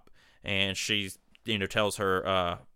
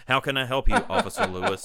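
laughing through the quote; higher, giggly retake of the line; 9 semitones higher than usual. Retold or imitated. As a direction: crack up while imitating. Repeats line while cracking up.

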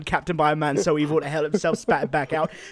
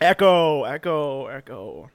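fading echo; 4 semitones lower, slower than usual. Retold or imitated. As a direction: let it die away like an echo. Echo in his head.

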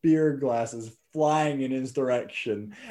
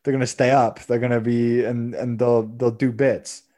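mocking pundits; 6 dB louder than usual. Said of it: "And everyone's like".

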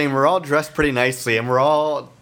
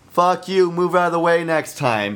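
higher-pitched mock call from afar; half-raised angry parting shout; retold distant yell; 5 semitones higher than usual. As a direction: imitate yelling an insult across the street. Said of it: "from the distance, the guy goes".

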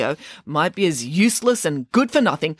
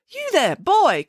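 calling out; 13 semitones higher, slower than usual. Acted. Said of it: "so she called out to it".

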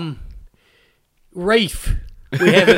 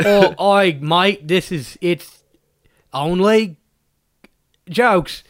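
halting attempt at an Australian accent; badly faked Australian; slower than usual. Podcast host introducing the show, bad Australian accent. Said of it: "retarded Australians 'cause I can't do a good accent".

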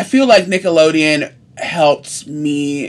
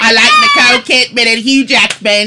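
hammed-up Aussie shout through laughter; Australian accent; 5 semitones higher than usual. To friends after daring an Australian accent, a laughing Australian shout. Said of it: "do an Australian accent".

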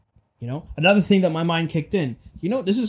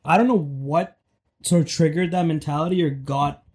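hoarse voice, scratchy sore throat. Real, not acted. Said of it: "I'm having a very sore throat moment".

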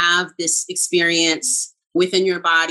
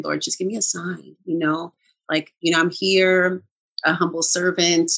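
softer, humble retold prayer; quiet prayer. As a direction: pray softly as a humble servant. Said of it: "I just was in that energy".

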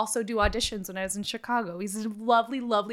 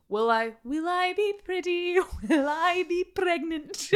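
mock worry; 6 semitones higher than usual. Mocking clinic worker's words.

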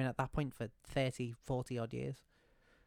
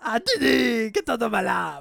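very high, loud cartoon outburst; Dexter impression; 9 semitones higher, 11 dB louder, slower than usual. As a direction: yell at a pesky sister like a cartoon boy genius. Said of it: "some Dexter's Laboratory impressions".

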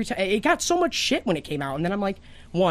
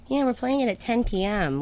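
mock announcer; 4 semitones higher than usual. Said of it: "they do that early, like".

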